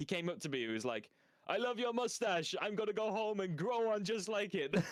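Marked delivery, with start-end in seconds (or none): 1.5-4.7 very high, bad, fake Swedish accent. Retelling what a guy who came up to him outside said, in a bad Swedish accent. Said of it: "worst Swedish accent I've ever heard".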